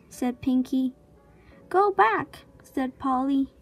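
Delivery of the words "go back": lightly voiced parrot squawk, high. A narrator's reading. Parrot warns those on the beach, lightly squawked. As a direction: squawk it like a warning bird. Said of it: "squawked Polly".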